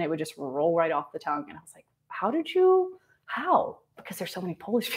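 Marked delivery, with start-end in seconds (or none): 2.1-3.8 higher-pitched, mildly baffled retold question; mock amazement. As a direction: act out being amazed they knew. Retold amazement at correct pronunciation.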